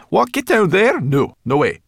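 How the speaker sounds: high, loud, indignant protest; outraged brownie digging in; appalled refusal. Acted. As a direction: balk noisily at the suggestion. Brownie refuses, shaking head vigorously.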